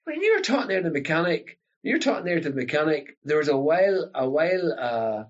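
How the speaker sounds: put-on a child ribbing dad about his broad talk; his kids teasing. Kids tease dad for talking broad to mechanic, light mock. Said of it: "you say".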